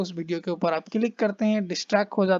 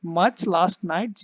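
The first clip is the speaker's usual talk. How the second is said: slow read; much slower than usual. Shown as a demonstration. Teacher reads slowly.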